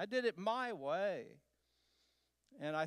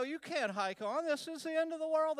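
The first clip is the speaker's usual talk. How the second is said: incredulous protest; 9 semitones higher, 3 dB louder than usual. Retold or imitated. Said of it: "I go".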